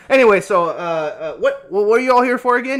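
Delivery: lightly voiced old codger, loud and wandering; a hint of an old sea dog spinning a yarn; rambling old sailor NPC. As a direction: ramble like a half-mad old fisherman.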